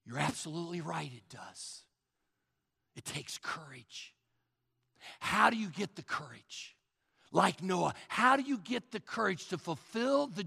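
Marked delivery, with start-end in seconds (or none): 0.1-4.1 soft, lower, sober concession; quiet agreement. Real, not acted. Pastor agreeing with the objector, quiet and sober. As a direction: concede it gently, dropping the voice.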